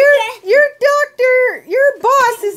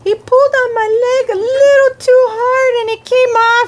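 mock crying. Elmo upset about his leg.

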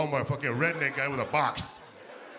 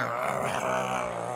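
imitated barking; slower than usual. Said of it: "He barked like this".

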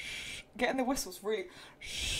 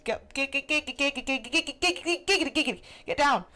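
shooing the cat; 4 semitones higher than usual. Real, not acted.

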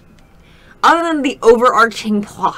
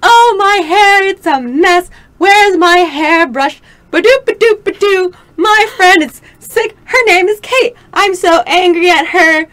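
ditzy sing-song voice, higher; mock the book's airheaded narrator; mocking the heroine; 4 semitones higher, 3 dB louder than usual. Mocking the heroine to her friends, ditzy sing-song. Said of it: "she's just like".

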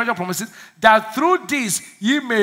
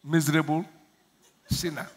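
mock groveling prayer; 5 semitones lower, 4 dB quieter than usual. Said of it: "But don't go say".

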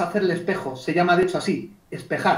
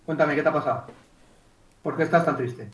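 lower, subdued question; mismatched downcast reply; 4 semitones lower, 5 dB quieter than usual. Acted. Coach wrongly answering a happy client, downcast. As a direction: answer joy in a sunken, sad tone. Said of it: "Ya, pero la emoción no".

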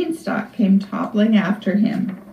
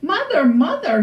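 high-pitched call for mother; Jack calling out; 6 semitones higher than usual. A narrator's reading. Jack calls to his mother from the beanstalk, calling out. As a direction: call out in a raised boyish pitch. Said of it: "he called out".

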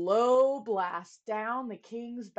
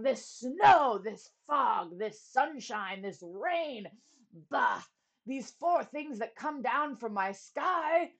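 king shouting; 2 semitones higher, slower than usual. Acted. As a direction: shout it out at the sky. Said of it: "he started shouting".

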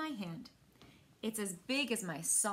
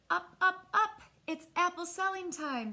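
higher and louder, a cheerful grandpa calling; rousing wake-up call; 7 semitones higher, 4 dB louder than usual. A narrator's reading. Grandpa waking Miles for selling day, loud cheerful call. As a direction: bounce them out of bed.

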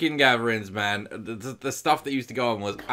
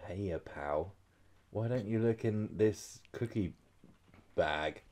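put-on northern accent; 3 semitones lower, 12 dB quieter than usual. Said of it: "I can't do northern accents".

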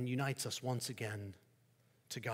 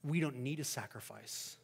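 quiet confident answer; 6 dB quieter than usual. Acted. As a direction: let the truth land gently. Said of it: "replies the Christian".

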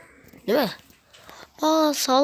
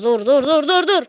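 laughing stop; 5 semitones higher, 6 dB louder than usual. Real, not acted. Laughing panic at opponent attack.

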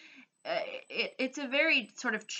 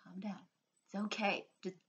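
soothing; 9 dB quieter, faster than usual. Pretend. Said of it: "I almost wanna just be like".

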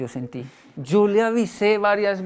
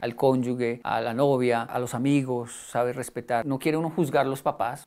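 ordinary talk

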